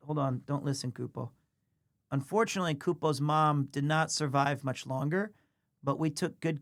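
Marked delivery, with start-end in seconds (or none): 0.1-1.3 quiet, secretive aside; hushed aside. Real, not acted. Streamer hushing news of Kupo's mom so the cat won't hear, softly. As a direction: drop to a near-hush so the cat can't hear.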